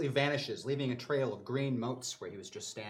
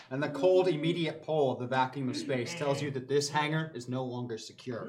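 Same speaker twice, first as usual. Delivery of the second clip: game master narration. A narrator's reading. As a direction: narrate it like a sci-fi action scene. GM scene narration.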